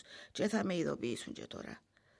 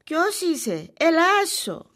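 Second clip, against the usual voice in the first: loud, high startled cry; startled call; 9 semitones higher, 11 dB louder, much slower than usual. Acted. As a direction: call out, alarmed by a noise. Startled by someone entering. (ξαφνιασμένη φωνή)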